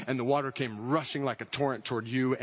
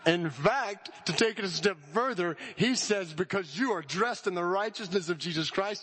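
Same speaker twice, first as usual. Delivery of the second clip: high, ringing declaration; impassioned preaching; 7 semitones higher than usual. Acted. Preacher declaring God's verdict to the church, ringing and high. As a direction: proclaim it with full conviction.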